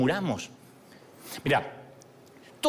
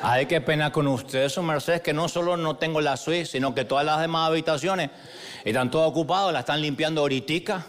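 put-on apologetic Caleño accent. Clerk says every room is taken, Caleño accent. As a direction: imitate a polite Cali clerk giving bad news. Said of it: "me dice con su acento caleño".

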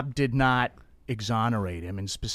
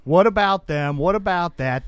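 mocking whataboutism; 4 semitones higher than usual. Pundit mocking an opponent's deflection tactic, half-hearted mock. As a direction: lightly parody the whataboutism dodge. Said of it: "this is the Trump playbook".

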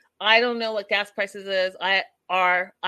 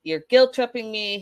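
mildly irritated mock complaint, a bit raised; retold anger; 4 semitones higher, 5 dB louder than usual. Vlogger voicing son fed up with guilt trips, mildly angry. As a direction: imitate a fed-up son accusing. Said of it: "then he gets mad at them".

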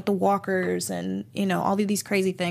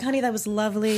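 a singer; 2 semitones higher than usual. Pretend. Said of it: "the pop singer of the group".

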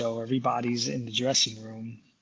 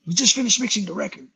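a drummer's voice; 4 semitones higher than usual. Retold or imitated. A drummer inviting Mark to tour Europe, booming. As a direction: boom down the phone like the drummer. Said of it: "I'm gonna do it in the voice of a drummer".

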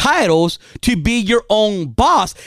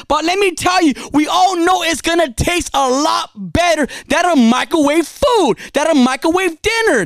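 rising excitement; 4 semitones higher than usual. Real, not acted. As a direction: build it up like a fired-up preacher. Preaching climax about cooking food.

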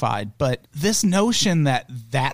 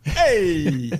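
mock New Zealand hey; 3 semitones higher than usual. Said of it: "New Zealand accent".

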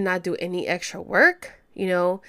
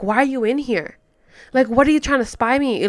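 mock scolding fly; 4 semitones higher, 6 dB louder than usual. Addressing the fly.

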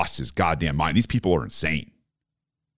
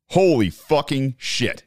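stunned; 6 semitones higher than usual. Real, not acted. Hearing preemptive nuclear strike, stunned curse. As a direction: let it sink in, aghast.

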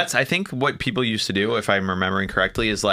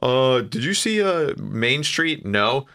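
panicked lost driver; 2 semitones higher, slower than usual. Retold or imitated. Acting out panic while lost.

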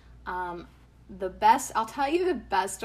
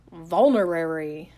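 stiff robot voice saying vulnerary; 3 semitones lower, 7 dB louder than usual. Shown as a demonstration. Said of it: "I just love talking like a robot".

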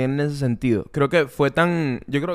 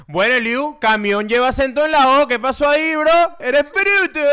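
high-pitched mock online scolding; internet commenters; 9 semitones higher, 3 dB louder than usual. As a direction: pick at a mistake like an indignant commenter. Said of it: "es como la gente de internet".

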